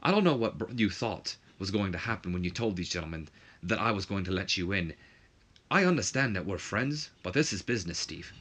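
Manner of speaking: a poor attempt at a British official; horrible British accent. Commissioner asks his friend to leave, horrible British accent. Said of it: "this horrible British accent".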